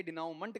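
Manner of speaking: "डिनाउमेंट" as di-now-munt, T sounded; naive spelling pronunciation. Retold or imitated. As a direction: read "डिनाउमेंट" as spelt. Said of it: "या ज्यादा करेंगे". ("डिनाउमेंट", आखिर का ट बोलकर)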